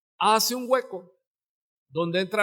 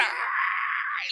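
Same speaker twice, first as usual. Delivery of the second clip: monkey scream; 5 dB quieter than usual. Acted. Monkey screams when caught.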